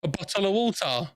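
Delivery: "A bottle of water." as a South East Londoner. Shown as a demonstration. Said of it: "and I say".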